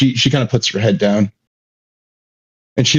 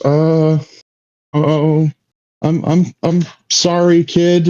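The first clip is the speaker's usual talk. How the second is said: higher-pitched, halting apology; uneasy sympathy, pitched up; awkward consoling; 6 semitones higher, slower than usual. Acted. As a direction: stammer a sorry to a crying child. Gator awkwardly consoles crying kid.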